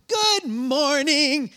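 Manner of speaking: high, drawn-out singsong good morning; exaggerated chirpy morning greeting; mock cheery greeting. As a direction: imitate an over-cheery wife greeting a stranger. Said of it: "my wife is like Miss Cheery in the morning".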